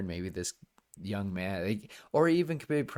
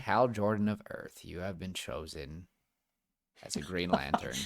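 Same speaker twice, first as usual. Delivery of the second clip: David Tennant voice; 3 semitones lower, 4 dB quieter than usual. Retold or imitated. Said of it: "We hear David Tennant's voice".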